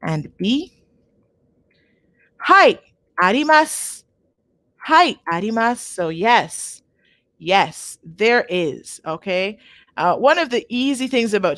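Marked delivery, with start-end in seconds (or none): 2.4-5.8 model answer. Shown as a demonstration. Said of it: "so we can see A and B".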